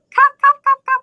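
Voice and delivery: high short cup, cup; ending particle cup. Shown as a demonstration. Teacher demonstrating the high ending particle, high clipped. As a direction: chirp cup, cup up high and quick. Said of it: "you're gonna hear a lot of".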